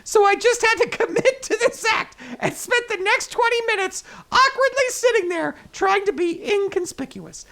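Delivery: lively, storytelling article read; news story read. Acted. Host reading wedding mix-up article to listeners, news story read.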